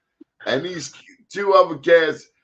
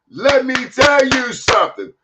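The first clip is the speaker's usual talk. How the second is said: put-on West African accent, higher and louder; 8 semitones higher, 4 dB louder than usual. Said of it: "this is my West African accent".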